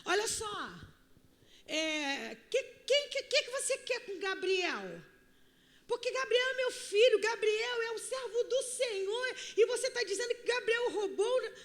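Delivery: high, agitated mock outrage; upset mother. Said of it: "E ela chegou assim". (mãe ofendida, voz aguda e exaltada)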